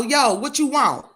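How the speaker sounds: high, slow street challenge; drawn-out hood-style demand; straight ghetto. Shown as a demonstration. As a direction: answer like somebody from the hood. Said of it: "They get straight ghetto".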